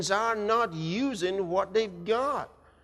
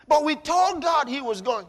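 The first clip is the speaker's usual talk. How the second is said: congregant's protest, said louder and higher; insistent protest; 5 semitones higher, 4 dB louder than usual. Retold or imitated. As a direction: insist you did pray, raised and firm. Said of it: "You told God he was gone?".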